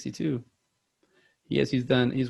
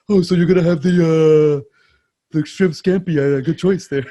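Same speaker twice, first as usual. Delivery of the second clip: loud, raised big-guy waiter voice; Brad Garrett impression; 5 semitones higher, 9 dB louder than usual. Waiter remarking on a diner's shrimp scampi order, Brad Garrett impression. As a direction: boom it out as an exaggerated sitcom giant. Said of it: "Brad Garrett does sound like that".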